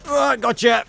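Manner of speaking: high, loud gleeful taunt. Pretend. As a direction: crow it out with glee.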